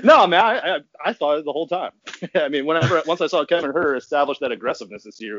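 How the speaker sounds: giddy rush through a laugh; giddy, racing. Real, not acted. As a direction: race through it high and excited. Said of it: "I'm racing through this here".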